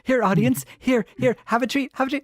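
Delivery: high-pitched doggy-treat voice; coaxing a pet. Pretend. Host offers the audience a treat, playfully coaxing. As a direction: coo at the audience like a dog being rewarded. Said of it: "like a little treat".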